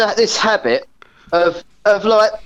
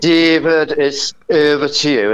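Lloyd Grossman impression; 4 semitones lower than usual. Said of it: "if you wanna do a Lloyd Grossman".

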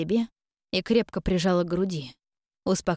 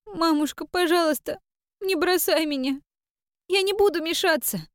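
put-on high girl's voice, tearful and begging; a small girl promising to be good; pleading child; 10 semitones higher than usual. A narrator's reading. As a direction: daughter pleads with her mother to keep her. Girl begs mother again.

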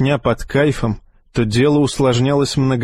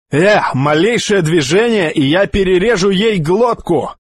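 higher, louder threatening thug voice; menacing threat; 7 semitones higher, 3 dB louder than usual. Acted. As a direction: bark the threat at them. Hostage-taker threatens. (угрожающий голос бандита)

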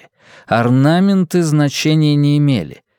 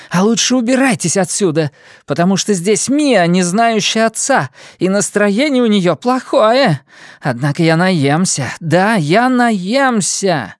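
raised snarling voice; growling dog voice; 8 semitones higher than usual. A narrator's reading. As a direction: snarl threats, drawing out the end. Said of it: "прорычала она".

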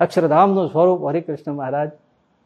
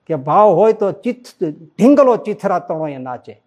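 quoting the bard; 2 semitones higher, 5 dB louder, slower than usual. Retold or imitated. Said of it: "Kanji ભૂટા Barot કહેતા".

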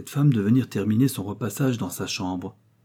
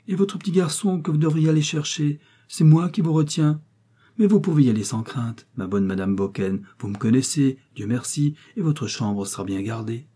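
voisine mielleuse; 5 semitones higher than usual. Acted. Voix de madame Minot.

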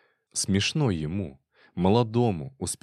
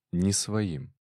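usual speaking voice

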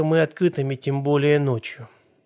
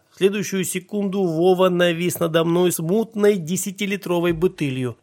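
plain reading voice

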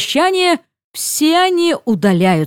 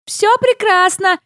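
high, bright call down; shouting back; 8 semitones higher than usual. Retold or imitated. Shouting down to Luke that she is fine. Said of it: "кричу я в ответ".

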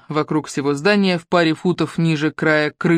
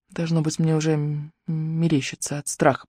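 quiet inner thought; 5 dB quieter than usual. Acted. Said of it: "подумала актриса".

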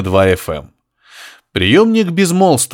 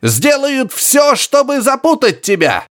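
high, slow grunting warning; high grunting professor; 12 semitones higher, slower than usual. Acted. Professor warning Harry over radio, high slow grunting. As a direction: drag out the warning, high and piggy.

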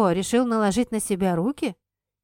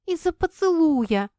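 higher, louder shout; shouting back; 9 semitones higher, 5 dB louder than usual. Acted. Kira yells back at Red, higher and louder. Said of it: "в тон ему выкрикнула я".

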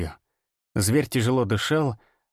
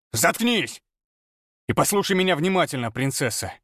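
growl; 4 semitones higher than usual. A narrator's reading. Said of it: "рыкнул я".

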